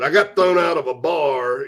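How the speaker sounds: slow comedian's drawl, lightly imitated; Ron White. Host quoting a comedy bit, light comedian impression. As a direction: stretch out bar like a stand-up comic. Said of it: "I said it like Ron White a little bit".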